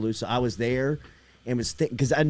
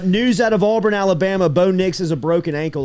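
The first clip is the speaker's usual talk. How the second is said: news update; 3 dB louder than usual. Acted. Host updates listeners on Auburn's quarterback, news read. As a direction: announce the injury news, punchy at first then evening out.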